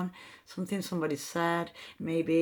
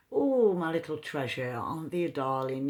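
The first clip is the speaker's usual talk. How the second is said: affectionate mock doting. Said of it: "being affectionate, as in".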